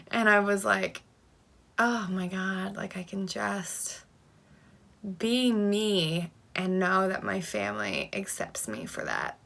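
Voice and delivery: slow, choked-up, breaking voice; fighting back tears while speaking; teary. Real, not acted. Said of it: "Sorry, I got a little teary".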